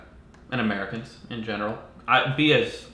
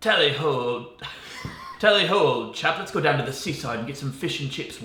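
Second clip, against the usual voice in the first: mock British accent; 2 semitones higher than usual. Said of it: "being British".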